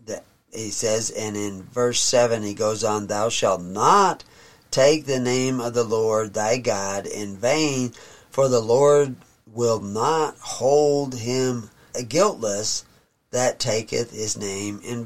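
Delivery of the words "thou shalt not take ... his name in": put-on slow, measured reading of the old text; solemn scripture reading. Preacher reading scripture to his congregation, slow and solemn. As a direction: read it like holy writ, unhurried.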